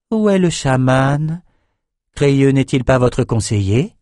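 high, slow curious sorceress; sorceress asks. Acted. Sorceress asking king about shaman, high curious. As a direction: probe politely. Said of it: "avant de demander".

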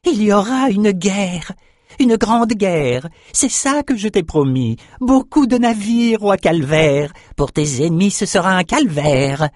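prophesy war with a crazed gleam; mad shaman prophecy. A narrator's reading. The albino shaman promises war to the king, half-mad. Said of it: "Une lueur de folie".

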